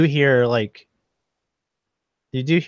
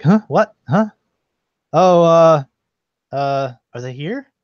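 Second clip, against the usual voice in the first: put-on befuddled old statue; 5 semitones higher, 7 dB louder than usual. Old statue shaken awake by his servant, befuddled. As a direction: fumble awake like a muddled old man. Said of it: "the voices sound old".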